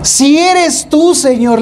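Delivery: high, slow, drawn-out doubtful Peter; doubting Peter. Retold or imitated. Peter to Jesus on the water, mock doubtful and slow. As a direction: stretch it out like a skeptic. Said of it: "le dice".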